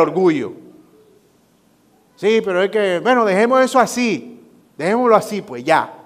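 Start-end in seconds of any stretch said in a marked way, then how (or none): 2.2-5.9 high, louder, huffy brush-off; proud wife. Acted. Wife too proud to admit she overreacted, high and huffy.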